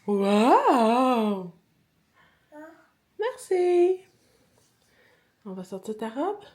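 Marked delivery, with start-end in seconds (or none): 0.1-1.5 amazed loud wow; excited wow. Real, not acted. Child's dress reveal. 3.2-4.0 high sweet merci; high thank-you. Acted.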